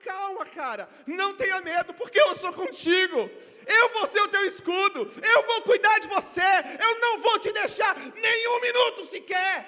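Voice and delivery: starts firm, swells into a loud ringing shout; God's voice rising to a shout. Acted. God answering his fear with a loud, building promise.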